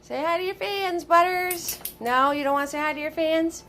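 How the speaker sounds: high coaxing pet talk; sweet, high voice for the pet dog; baby talk to the dog. Acted.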